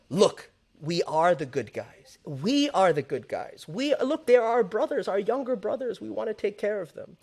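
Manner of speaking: mock-kindly big-brother tone, talking down sweetly; a hint of syrupy patronizing gatekeeper; minty sweet paternalism. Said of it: "through this really minty, sweet language".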